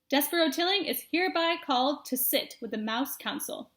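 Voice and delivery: a formal, pounding decree; head mouse declaring judgment; solemn proclamation. Acted. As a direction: proclaim it to the whole council. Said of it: "beat his paw against the table".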